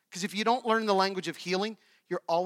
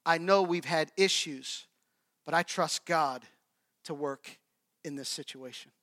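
gentle reconciling; 3 semitones lower than usual. Shown as a demonstration. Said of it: "Healing sounds like".

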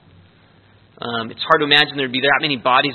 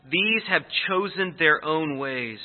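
slow reading; 4 dB quieter, slower than usual. Shown as a demonstration. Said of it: "reads verse, then repeats it".

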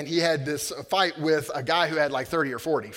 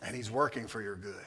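soft comfort; 10 dB quieter than usual. Acted. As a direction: reassure them quietly. Quiet comforting close.

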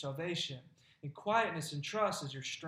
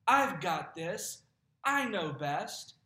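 slow, louder proud insistence; stubborn self-reliance; 6 dB louder, slower than usual. Retold or imitated. Believer insisting to God, slow proud insistence. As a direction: dig in, sure you know best.

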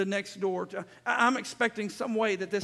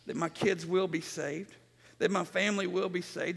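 ordinary talk

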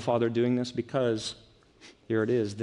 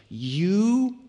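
put-on incredulous older son; 3 semitones higher than usual. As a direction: drag it out in mock disbelief at the father. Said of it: "Can you just hear the incredulity in his voice?".

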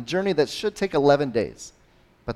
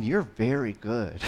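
gentle reassurance; 4 dB quieter, slower than usual. Retold or imitated. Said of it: "it's more like saying".

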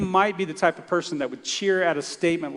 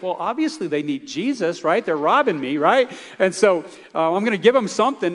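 louder, eager self-justifying; earnest excitement; 3 semitones higher, 7 dB louder than usual. Retold or imitated. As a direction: insist it was obvious, all fired up. Student defends witnessing to robbers.

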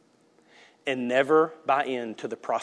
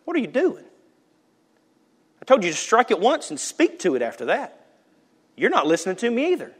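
lightly voiced stern God; 9 semitones higher than usual. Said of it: "God's gonna go".

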